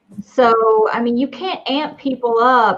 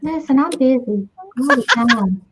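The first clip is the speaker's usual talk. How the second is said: put-on fly character voice; Sam impression. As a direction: play the busy fly in a creepy voice. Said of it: "You sound like Sam".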